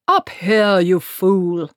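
loud gruff call from above; impatient shout. Acted. Archchancellor on a broomstick shouting down at Treatle, impatient. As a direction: bark down at the fool below.

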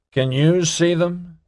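high, slow, earnest; earnest question. Acted. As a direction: ask sincerely, drawn out. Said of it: "he asked Nelson earnestly".

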